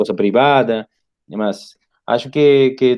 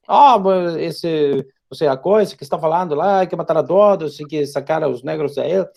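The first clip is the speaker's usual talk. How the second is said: higher mocking voice; imitating an online commenter; mocking quote; 6 semitones higher than usual. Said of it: "As pessoas deixam mensagens que".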